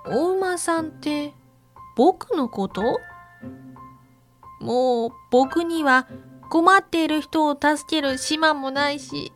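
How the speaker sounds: put-on sad little boy, close to crying; a touch of tears in a child's voice; tearful young zebra. A narrator's reading.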